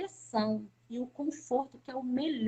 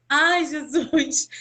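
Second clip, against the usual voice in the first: slow, loud, tearful Ai, Jesus; tearful cry to Jesus; 8 dB louder, much slower than usual. Retold or imitated. Mother overwhelmed in prayer, crying out to Jesus loud and slow. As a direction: let it break out of you in tears.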